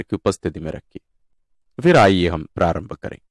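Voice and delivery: low, softened prayer-leader voice; guided meditation. Real, not acted. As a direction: settle them gently into prayer, pitched low. Guides listeners into God's presence.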